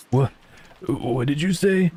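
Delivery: high, drawn-out disbelief; shocked question. Acted. Acted shocked question in visual novel.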